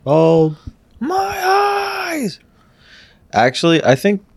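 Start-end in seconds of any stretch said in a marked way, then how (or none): 1.0-2.4 mock wail. Joking reaction to shaved pet.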